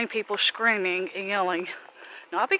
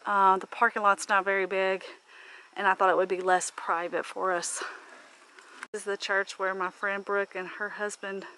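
usual speaking voice

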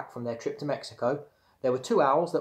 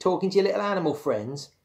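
higher-pitched mocking question; teasing; 7 semitones higher, 4 dB louder than usual. A narrator's reading. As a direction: needle him about his toys. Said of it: "she teased".

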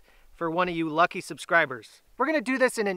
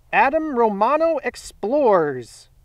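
slow, raised announcer call; winner announcement; 3 semitones higher, slower than usual. Real, not acted. Host reveals first giveaway winner, slow announcement. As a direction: draw out the winner's name with ceremony.

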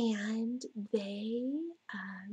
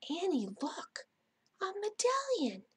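excited calling; 9 semitones higher than usual. A narrator's reading. Jack calls Annie to see find.

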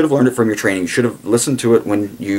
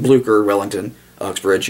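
ordinary talk

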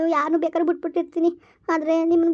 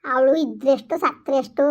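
slow, cold and cutting, each word weighed; slow bitter scorn; slower than usual. Acted. Mother to her daughter's mother-in-law, slow bitter scorn. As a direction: spit out slowly that she doesn't care.

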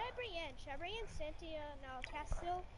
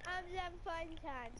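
intro voice. Pretend. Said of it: "I got your intro. Ready?".

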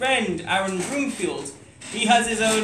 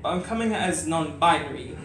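letter read as spoken word; poem recitation. Acted. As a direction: recite like a heartfelt open letter.

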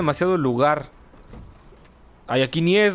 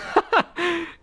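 squeaky burst of laughter; giggling fit; high laugh; 13 semitones higher than usual. Real, not acted. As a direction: crack up high. Laughing at chat joke.

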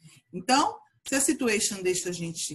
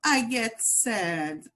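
slow, drooping sad voice; teacher acting sad for kids; sad voice demo; slower than usual. Shown as a demonstration. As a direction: show them how sad sounds. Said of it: "If it makes you sad".

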